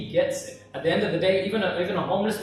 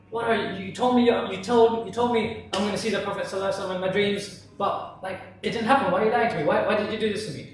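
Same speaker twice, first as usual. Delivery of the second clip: slightly raised, aggrieved questioning; indignant accusation; 2 semitones higher, faster than usual. Acted. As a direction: confront him, feeling mildly cheated. Man confronts sheikh over broken promise.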